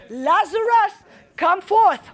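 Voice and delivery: slow, drawn-out commanding call; calling forth. Acted. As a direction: summon someone with authority. Jesus calls Lazarus, acted again.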